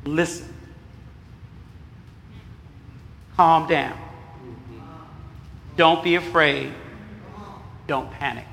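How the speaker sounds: soft, low, spaced-out reassurance; soft calming list. Shown as a demonstration. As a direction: say each line gently, with pauses between. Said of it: "So repeat after me".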